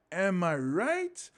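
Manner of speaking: slow, drawn-out rhetorical question; mock comic's hook line; stage catchphrase. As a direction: stretch it out, rising at the end. Delivering his improvised onstage catchphrase.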